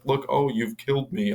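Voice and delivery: high, hammed-up fake dying; mock defeat. Monster fakes death to fool Rose, high mock lament. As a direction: feign being beaten in a high voice.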